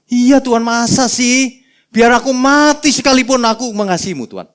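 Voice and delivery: high, loud gushing protest; overdramatic Peter. Retold or imitated. Preacher plays Peter vowing love to Jesus, gushing. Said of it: "Petrus memang agak lebay".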